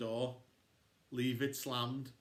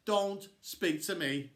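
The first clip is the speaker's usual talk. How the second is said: cold anger; 4 semitones higher, 4 dB louder, slower than usual. Acted. Florida cold after hurtful remark.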